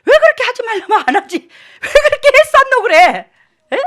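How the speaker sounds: high, loud demand for an answer; exasperated scolding. Real, not acted. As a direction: berate them, rising to a shout. Scolding the congregation for disobedience.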